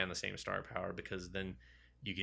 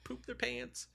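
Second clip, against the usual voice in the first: shocked squeal; 7 dB quieter, slower than usual. Retold or imitated. Everyone shocked by hammer.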